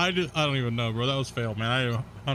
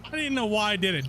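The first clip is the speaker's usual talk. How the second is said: put-on old man voice; 5 semitones higher than usual. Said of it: "combination between Meat Lord and Herbert".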